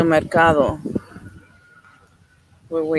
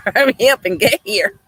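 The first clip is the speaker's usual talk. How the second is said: playful yell; 6 semitones higher than usual. Real, not acted. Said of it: "Why are you yelling at him".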